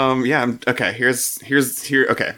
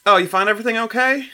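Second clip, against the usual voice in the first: Berrigan voice; 7 semitones higher, 4 dB louder, faster than usual. Acted.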